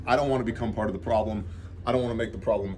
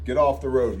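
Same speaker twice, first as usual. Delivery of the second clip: firm, louder command; raised-voice order, mildly acted; retold yell; 2 semitones higher, 5 dB louder than usual. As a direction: re-enact ordering people away. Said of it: "I'm yelling at people".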